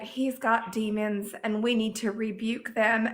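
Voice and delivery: slow imitated Southern drawl; Southern accent. Imitating mother-in-law calling to rebuke demons, Southern accent. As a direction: put on an unhurried Southern accent. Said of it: "forgive me for my Southern accent here".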